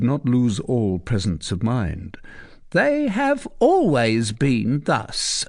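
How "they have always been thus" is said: stammered. Acted. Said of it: "she stammered".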